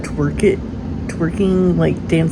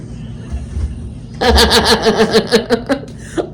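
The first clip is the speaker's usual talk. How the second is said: real laughter; 3 semitones higher than usual. Real, not acted. Laughs at kid.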